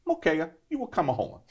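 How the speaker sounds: light Italian-accented English, imitating a father; a hint of an Italian immigrant dad's accent; Italian dad's broken accent. Italian-born father inviting his son home, light Italian accent. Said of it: "in my dad's broken accent".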